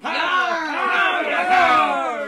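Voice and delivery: slow, loud pirate bellow. Retold or imitated. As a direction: drag it out like a pirate captain. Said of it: "You thought it was a pirate voice".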